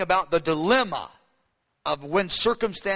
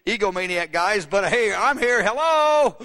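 indignant Merab; 3 dB louder than usual. Acted. Overlooked daughter calling out to egomaniac guys, indignant. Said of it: "Merab's going".

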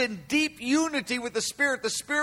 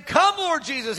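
raised, earnest prayer cry; intercession; 5 semitones higher, 4 dB louder than usual. Acted. John breaks out into prayer, raised intercession. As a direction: pitch it up as a prayer. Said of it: "He just breaks out into intercession".

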